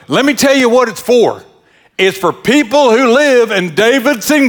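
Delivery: high-pitched mock-official woman; imitating the dump guard. Dump guard tells a driver who may dump here, imitated high officious voice. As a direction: lay down the county rules as a comic little gatekeeper. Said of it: "She talked like that".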